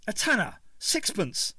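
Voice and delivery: put-on Cockney stallholder impatiently explaining old money to Ace. A narrator's reading. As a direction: snap the price in Cockney. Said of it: "said the little man impatiently".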